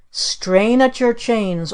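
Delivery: slow mock-stern command; ordering. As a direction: draw out the order. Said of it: "ordered our Aunt Esta".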